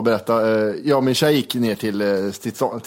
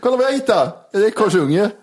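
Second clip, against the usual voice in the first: high proud cat voice; 5 semitones higher than usual. Retold or imitated.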